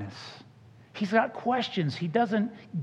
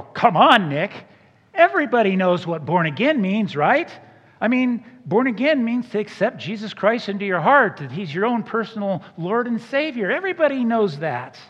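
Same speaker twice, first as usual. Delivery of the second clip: louder, mock-smug church-insider voice; smug know-it-all; 3 semitones higher, 3 dB louder than usual. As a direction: lecture Nick as if it's obvious. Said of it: "Or we go".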